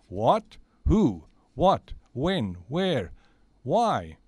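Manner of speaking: loud, rapid-fire startled questions; startled questioning. Acted. Santa hearing the kids are captured, acted alarm. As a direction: fire off each question like a jolt.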